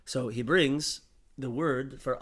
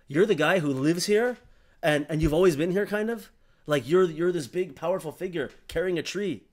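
animated admiration; 6 semitones higher, 7 dB louder than usual. Retold or imitated. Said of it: "he says".

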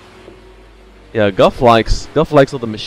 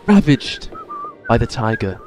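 hushed nature documentary; 7 semitones higher than usual. Pretend. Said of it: "he sounds like a documentarian".

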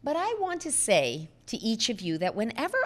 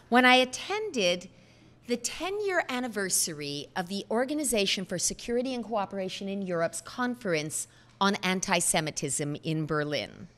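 ordinary talk, nothing marked

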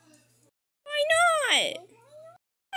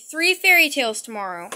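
reciting promise; 7 dB louder, faster than usual. Acted. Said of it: "keep saying it".

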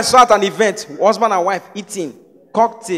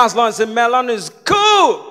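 put-on British Warri accent. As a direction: imitate a Warri speaker putting on British English. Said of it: "British Warri, it was obvious".

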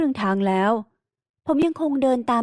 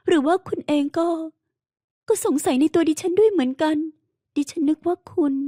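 higher, hurt and reproachful; wounded heroine; 7 semitones higher than usual. Acted. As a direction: accuse him through hurt. Heroine feels suspected, hurt. (น้ำเสียงหญิงสาวน้อยใจตัดพ้อ)

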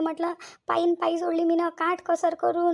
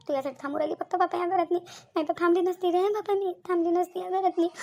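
tearful; 2 semitones higher than usual. Acted. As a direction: voice rising toward tears. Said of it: "आई, रडू नको तू".

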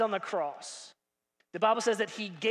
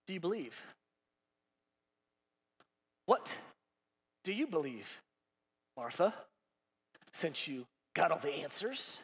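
soft low question; 5 semitones lower, 7 dB quieter than usual. Acted. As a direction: lower and softer, searching. Jesus asks softly.

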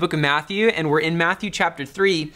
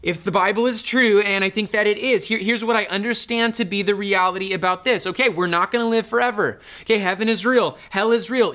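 earnest conviction; 4 semitones higher than usual. Retold or imitated. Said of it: "you just feel like".

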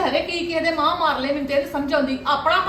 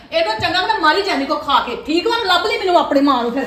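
louder, furious threat to her son; angry threat; 2 semitones higher, 5 dB louder than usual. Acted. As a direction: lash out at him. Mother threatens son in quarrel. (ਗੁੱਸੇ ਵਿੱਚ ਉੱਚੀ ਧਮਕੀ)

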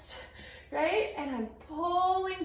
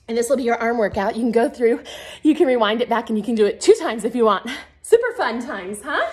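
upbeat coach; 3 semitones lower, 8 dB louder, faster than usual. Real, not acted. Upbeat wrap-up announcement.

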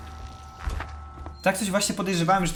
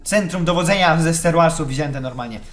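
ordinary delivery

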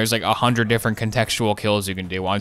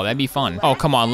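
ordinary talk

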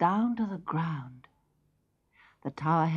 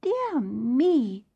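put-on girl voice; 6 semitones higher than usual. Rapunzel speaks.

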